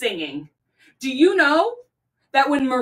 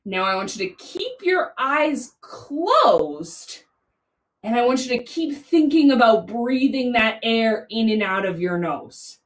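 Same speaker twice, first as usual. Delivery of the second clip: slow, soothing breathing cue; guided meditation; 2 semitones lower, slower than usual. Real, not acted. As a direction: ease them into stillness with long pauses. Continues guided breathing for children.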